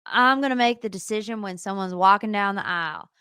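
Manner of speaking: lightly voiced Matt; a hint of Matt. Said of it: "I gotta do my Matt voice".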